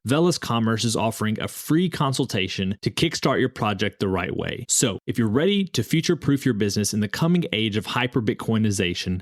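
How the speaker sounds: polished, scripted podcast ad delivery; sponsor ad read. Acted. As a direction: read the sponsor spot crisply, selling the service.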